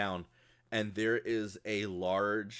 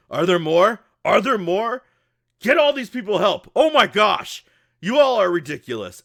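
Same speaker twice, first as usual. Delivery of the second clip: high, very loud battlefield hollering; exasperated shouting; 8 semitones higher, 12 dB louder than usual. Acted. Grant to his workers amid attacking rats, exasperated shouting. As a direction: bellow urgent questions and orders in exasperation.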